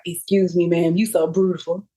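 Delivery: lightly imitated Memphis man; Memphis accent. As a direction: slip into a hint of Memphis accent. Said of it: "he was so Memphis".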